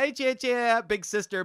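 high, loud mock non-native English accent; girlfriend's bad English. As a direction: imitate a girlfriend calling out in broken English accent. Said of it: "Her English was really bad".

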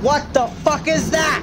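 high, loud, slow shocked question; stunned by what you see; surprised. Real, not acted. Monster appears, alarmed.

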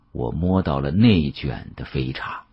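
usual speaking voice

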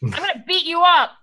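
high-pitched mock angry yell; yelling Strix. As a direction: rant upward at a missing friend, half-shouted. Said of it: "Strix is gonna start yelling".

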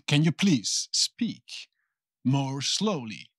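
slow, spaced-out polite request; slow and deliberate. Shown as a demonstration. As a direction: model the request slowly, pausing between phrases. Models asking someone to slow down. (petición lenta, con pausas)

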